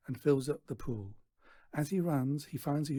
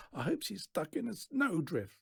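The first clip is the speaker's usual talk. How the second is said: yelling; 7 semitones higher than usual. A narrator's reading. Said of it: "yells Natasha".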